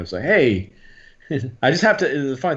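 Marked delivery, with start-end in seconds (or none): 0.2-0.7 Alabama accent. Shown as a demonstration. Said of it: "gets me back in my Alabama".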